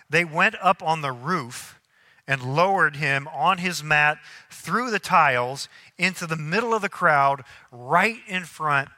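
spaced-out phrases with weighted key words; scripture reading. A narrator's reading. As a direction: read the Bible story deliberately to a congregation. Reads scripture aloud to congregation.

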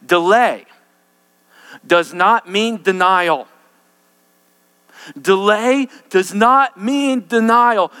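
slow, weighty stress on "not"; emphatic. Shown as a demonstration. Preacher drills a note-worthy line into the congregation, slow and heavy. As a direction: hammer home the key line. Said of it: "Write this down".

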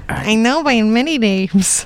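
slow, drawn-out mimicry; lightly mock his voice, dragging the words; teasing slow copycat; mocking imitation. Mocking the other player's character voice.

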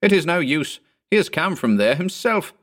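high-pitched, plaintive objection; wailing protest. A narrator's reading. Landlord argues against searching Jensen's room, plaintive wail. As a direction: plead against it in an understated wail. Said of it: "wailed the landlord".

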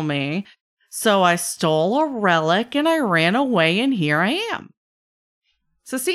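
animated trickster spinning his tale, swooping pitch; chatty trickster. Acted. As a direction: tell the backstory with theatrical relish. Game master plays chatty god-touched trickster.

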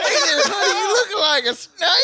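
flirty voice. Pretend. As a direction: hit on him cheesily.

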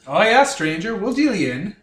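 put-on Canadian accent in place of a New Orleans French one; a shopkeeper with a Canadian accent. A Borkin trader welcomes the stranger in a Canadian accent. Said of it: "in their New Orleans French accent ... which is now this accent".

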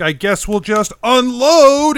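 mock deadpan. GM parodying Geppetto's one-liner, mildly mocking. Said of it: "you would just be like".

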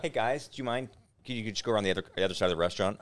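mild, courteous mock request, softening at the end; polite request. Hypothetical nice way to ask smokers to move, politely imitated. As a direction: ask nicely, as if not wanting to bother. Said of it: "it wasn't like a".

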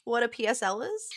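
talking with a numb tongue. Real, not acted. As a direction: speak as if your tongue is numb. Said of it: "my tongue is numb".

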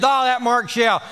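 mumbled low grumbler, fading to muttered blanks; mock grumble. Imitating a gossip grumbling about Mark Shell, fading low. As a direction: grumble half under breath. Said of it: "somebody says".

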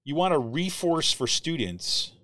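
slow mocking disbelief on the repeat; slow, incredulous reread. Shown as a demonstration. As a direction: drag it out slowly in disbelief. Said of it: "This was just blew my mind".

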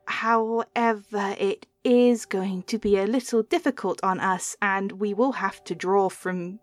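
measured patron goddess, lightly put on; a hint of a deity bargaining; lightly voiced deity.

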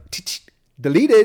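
high, loud mock deletion; imitated movie line. Co-host quoting his reaction to the kiss, imitated. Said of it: "He's like".

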